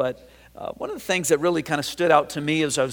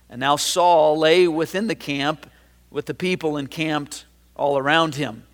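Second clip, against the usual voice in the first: measured, a bit louder reading of the Bible passage; scripture reading; 3 dB louder than usual. Acted. Pastor reads First Samuel to his congregation, measured. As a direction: read the verses out to the congregation.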